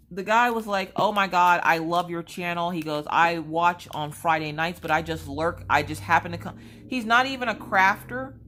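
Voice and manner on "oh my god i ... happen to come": louder, higher starstruck chatter; gushing fan. Retold or imitated. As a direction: gush like a shy superfan. Guy gushing about channel.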